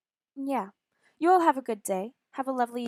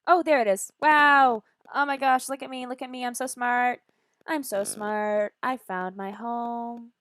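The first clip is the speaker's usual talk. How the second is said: loud, high delighted exclaiming; thrilled discovery; excited; 3 semitones higher, 8 dB louder than usual. Real, not acted. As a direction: burst out in joy at finding home. Excited finding home.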